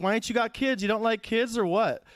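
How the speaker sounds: a hint of a pushy kid; fifteen-year-old kid. Kid grilling his childless substitute teacher, lightly voiced teen. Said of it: "some fifteen-year-old kid".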